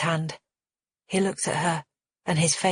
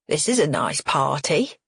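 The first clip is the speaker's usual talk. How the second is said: cheerful; 2 semitones lower than usual. Acted. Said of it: "Dad says cheerfully".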